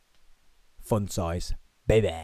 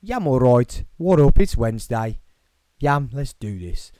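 broad Brummie greeting, punched out; hammed-up dull Birmingham voice; dull Birmingham accent; 6 dB louder than usual. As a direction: lay on the Birmingham accent in short bursts. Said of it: "my horrible, dull Birmingham voice".

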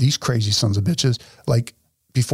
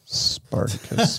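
slow mocking whisper; 5 semitones lower, 5 dB quieter, much slower than usual. Real, not acted. Mocking Booker's nickname.

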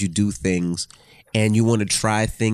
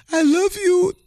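stoned wife. Retold or imitated. Husband imitating his stoned wife marvelling at colors, high squeaky. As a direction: gush over the colors while high.

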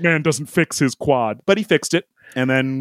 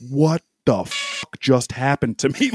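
stunned disbelief. Retold or imitated. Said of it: "And I was like".

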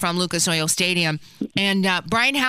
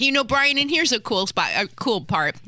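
talking with mouth full; words round a bite of food. Real, not acted. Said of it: "I've got my mouth full".

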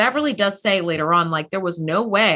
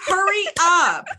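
higher, slow mock urging, with a laugh; 7 semitones higher, slower than usual. Yelling at the screen for her to hurry, half laughing. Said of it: "I was like".

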